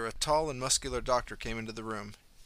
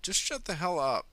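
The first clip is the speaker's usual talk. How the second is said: higher, sharp annoyed retort; annoyed snap; 7 semitones higher, 3 dB louder than usual. A narrator's reading. Marnie telling the nosy patient to shut up, a sharp higher snap. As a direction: shut him down curtly. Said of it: "Marnie snapped".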